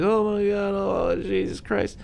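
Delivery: high, slow alarmed cry; panicked old man; startled gasp. Retold or imitated. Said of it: "He's like".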